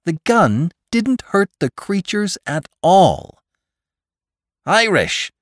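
high-pitched, disbelieving cry; incredulous bellow. A narrator's reading. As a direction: call out in alarmed disbelief. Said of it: "the Irishman's incredulous bellow".

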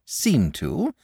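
high, slow, emphatic dragon; excited cry. A narrator's reading. Dragon agrees with the boy about unappreciative listeners, excited. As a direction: stretch each word in heartfelt agreement. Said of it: "cried the dragon".

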